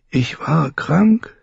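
hushed, slow whispered realization. A narrator's reading. Waking Dany states she was ill, whispered. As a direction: breathe it out, barely there.

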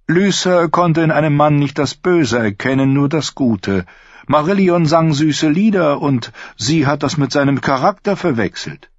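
tender. A narrator's reading. Petyr tenderly speaking of his dead wife to the lords. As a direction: speak of her fondly, as a mourning husband. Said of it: "Petto sprach so zärtlich".

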